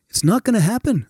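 put-on lilting star voice; imitated musician's polite refusal; a famous musician. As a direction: let him down firmly. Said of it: "the musician puts his hand ... and goes".

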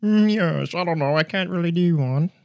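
high-pitched, put-on British voice; British accent attempt. Shown as a demonstration. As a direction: have a tentative go at British. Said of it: "What's your best British accent?".

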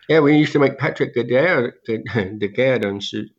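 speaking with no teeth; toothless. Real, not acted. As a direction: talk without any teeth. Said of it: "I just had all my teeth out, so I'm talking kind of funny".

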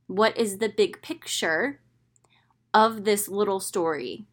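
whispered rhetorical question. Shown as a demonstration.

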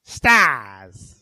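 a hint of a monster shout; Nemesis impression. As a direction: bark it out like a monster. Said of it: "I better do my Nemesis impression".

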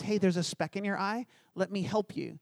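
a quiet, gentle voice for Jesus; softly and kindly, helping someone up close. Retold or imitated. Jesus gently offers to help, quietly tender. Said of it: "he comes gently".

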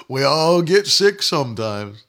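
low put-on voice of a resigned believer; mocking excuse-maker. Preacher repeating a stupid confession he rejects, mocking. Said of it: "I just don't talk like that".

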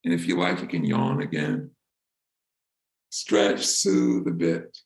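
calm, unhurried meditation voice with long pauses; soothing, spacious delivery; guided meditation. Real, not acted. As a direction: gently guide them back to the breath. Leads a breathing meditation.

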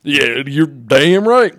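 loud, very slow mock indignation; Joey mad. Joey agreeing it is ridiculous, mock indignant. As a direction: drag it out in hammed-up righteous anger. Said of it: "Damn right I'm getting mad".

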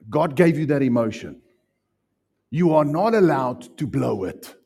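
ordinary talk, nothing marked

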